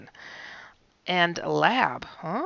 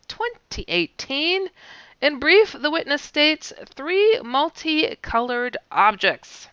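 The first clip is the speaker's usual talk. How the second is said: upbeat broadcast host read; news show host. Acted. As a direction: announce the headlines brightly. Opens her UFO news show.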